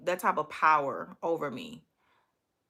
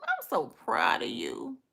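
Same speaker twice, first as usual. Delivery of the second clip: mock-emotional proud mom, lightly voiced; 4 semitones higher than usual. Imagining cheering on Trini's cussing, playful proud mom. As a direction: gush a little, then thin to a higher near-whisper. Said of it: "I would have been like a proud mom".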